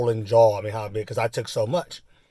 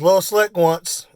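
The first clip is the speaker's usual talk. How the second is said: raised, drawn-out call; retold yell; 6 semitones higher, 4 dB louder than usual. Biker yelling to dad about the kid, retold yell. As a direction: slowly call it across the courtyard, in imitation. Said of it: "He yells".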